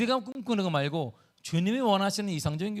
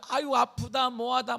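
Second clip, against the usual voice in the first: acted-out moaning about pain, pitched up; mock patient complaining; 5 semitones higher, slower than usual. Preacher voicing hospital patients to congregation, mock complaining. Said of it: "병원이니까 막 뭐라고 하는 거야".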